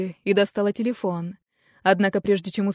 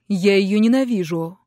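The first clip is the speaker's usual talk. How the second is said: put-on louder, a bitter teenage outburst; angry son; 5 dB louder than usual. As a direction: spit out the hatred at full voice. Son shouts hatred at mother.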